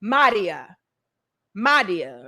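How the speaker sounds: put-on Madia said with a light foreign accent, stretched and falling; a hint of a foreign accent on Madia; imitated accent. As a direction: mimic the foreign accent on Madia, letting each one drop at the end. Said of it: "They said it with, like, an accent".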